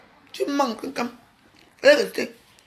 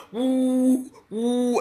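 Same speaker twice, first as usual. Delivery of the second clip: mock booing; 2 semitones higher than usual. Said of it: "quand on l'a fait comme ça".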